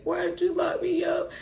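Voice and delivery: high-pitched imitation of a crybaby; mock his tearful whine; mock crying. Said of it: "he's crying and he's like".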